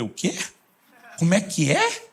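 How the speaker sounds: puzzled double-take, pitch leaping at the end; imagined disbelief, rising sharply into the question; mock incredulity. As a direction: play a baffled "come again?". Imagined incredulous Holy Spirit reply.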